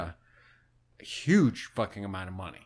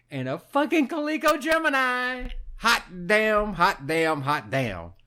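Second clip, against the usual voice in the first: high, loud, excited whoop; thrilled; 11 semitones higher, 4 dB louder than usual. Real, not acted. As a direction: crow over the prize with growing glee. Excited about the find.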